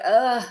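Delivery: ugh as a short groan; a weary little ugh; fed-up groan. Shown as a demonstration. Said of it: "say it with a certain intonation".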